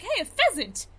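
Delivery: high-pitched mock delight at spotting something; imitated excitement. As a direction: imitate someone thrilled, pitched well up. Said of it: "genuinely excited to be like".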